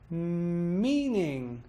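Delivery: long hummed M, rise-fall across "Meaning"; bounce over both syllables. Shown as a demonstration. Teacher showing two syllables, bounced from a hum. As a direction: stretch "Meaning" in one swoop up and down. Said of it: "bouncing over the whole two syllables".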